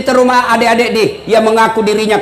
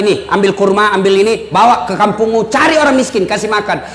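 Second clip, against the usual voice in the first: lightly lowered, kindly Prophet voice; 4 semitones lower than usual. Retold or imitated. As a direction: hand over the dates like a patient elder. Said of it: "Kata Nabi".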